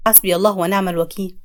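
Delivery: low, solemn sheikh intoning it; a pious old man lamenting, low and grave; grave sheikh's prayer. Acted. Sheikh lamenting the spell to the family, low and solemn. Sheikh sighs over the magic.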